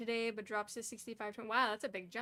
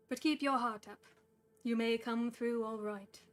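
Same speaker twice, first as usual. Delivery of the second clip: 1 Gandalf voice; 3 dB louder than usual. Acted. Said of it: "said Gandalf".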